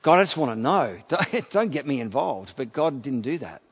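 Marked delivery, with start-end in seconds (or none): 0.0-2.5 mock panicked protest. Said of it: "I'd be going".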